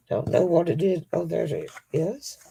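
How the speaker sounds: talking around a pen held in the teeth; muffled by a pen between the lips; pen in mouth. Real, not acted. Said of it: "I was just talking away with my pen in my mouth".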